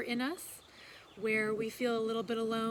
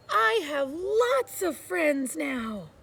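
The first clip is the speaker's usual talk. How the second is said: louder, slow and proud; very loudly; 5 semitones higher, 6 dB louder, much slower than usual. A narrator's reading. Little Beaver shouting his joy across the pond, loud and slow. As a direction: announce it slowly to the whole pond. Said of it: "he said it again, very loudly".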